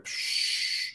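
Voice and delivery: a whispered puff of air; soft breathy psh. Retold or imitated. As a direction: blow out a quick unvoiced psh. Imitating praying the glory on.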